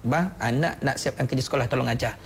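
mild, unforced wifely request; gentle request. Shown as a demonstration. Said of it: "Puan cakap lembut begitu je".

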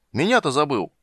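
high, loud protest; indignant shout after someone leaving; crying out. A narrator's reading. Old man to departing dragon, crying out. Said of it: "закричал он, кашляя и отплёвываясь".

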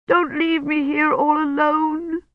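put-on high, slow little-girl pleading; childish plea. A narrator's reading. Old woman begs Daddy not to leave her, slow high childish plea. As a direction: beg like a frightened small child.

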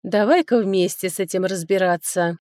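ordinary delivery

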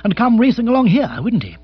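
high, loud panicky character voice; dithering aristocrat in alarm; agitated young lord, dismayed. Acted. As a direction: voice climbing as the worry dawns.

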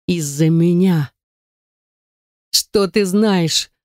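tearful, dragged, breaking; sobbing. A narrator's reading. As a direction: force each word out while crying. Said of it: "всхлипывая, выдавила я".

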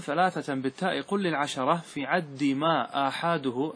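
slow, measured chant of the verse line; verse recitation. Shown as a demonstration. Teacher chanting the grammar verse to his class, slow and measured. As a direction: intone the verse slowly for students.

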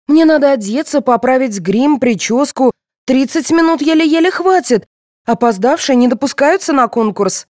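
high, loud, fretful listing; nervous. A narrator's reading. Contestant afraid of missing the final, nervous. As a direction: worry aloud with pitch climbing. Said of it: "занервничала девушка".

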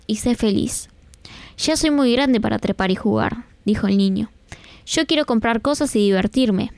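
put-on gentle storyteller reading to children; story narration. A narrator's reading. Radio host reading a children's story to listeners.

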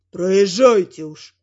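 troll guards grumbling, grudgingly letting them pass. A narrator's reading. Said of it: "ворчат стражники". (низкое медленное ворчание троллей-стражников)

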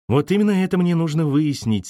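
very firm. Acted. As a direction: state it with resolve. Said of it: "сказала она очень твёрдо". (очень твёрдо)

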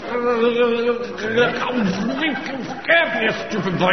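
spluttering through a mouthful; mouth full. Acted. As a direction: talk round a mouthful of coffee. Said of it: "You're choking".

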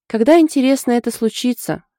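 pulling a face while asking; wry mocking doubt; wry grimace. A narrator's reading. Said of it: "скривилась Янка".

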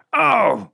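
high sharp cry of pain; pained yelp. A narrator's reading. Bouncer hurt in a scuffle, yelping. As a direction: yelp as you get hurt.

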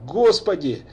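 high, loud despairing cry; desperate plea. A narrator's reading. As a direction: cry out for help. Father tearing hair, crying out. (отчаянный вопль)

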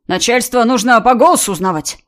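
distorted put-on boss voice; disguised voice. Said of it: "искажённым голосом продолжил Ваня".

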